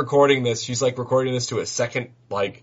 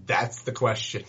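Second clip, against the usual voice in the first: muttering; 6 dB quieter than usual. Acted. Vanessa answers Sal's challenge to the crows, muttering. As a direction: mutter it under your breath. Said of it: "Vanessa mutters".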